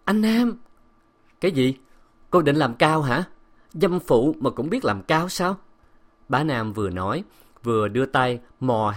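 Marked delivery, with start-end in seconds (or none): 0.1-0.6 high, louder startled call; sudden high-pitched protest; alarmed cry. A narrator's reading. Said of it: "nàng kêu thất thanh". 1.4-5.6 contemptuous challenge, raised pitch; mocking, insulting retort; scornful snapping. A narrator's reading. Man taunts wife who resists him.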